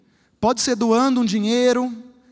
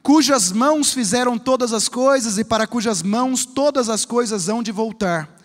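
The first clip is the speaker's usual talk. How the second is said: slow, earnest prayer reading. Acted. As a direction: pray it aloud, slowly. Prayer read before the sermon.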